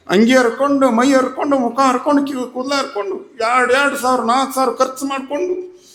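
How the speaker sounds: husband loses his temper, raising his voice; angry husband. A narrator's reading. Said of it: "ಅವಂಗ ಸಿಟ್ಟು ಬಂತು ನೋಡ್ರಿ".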